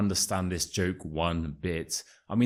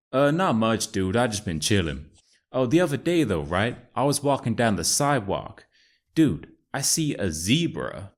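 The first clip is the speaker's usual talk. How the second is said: put-on American accent; 2 semitones higher than usual. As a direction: play Chad, an American bro. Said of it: "my amazing American accent".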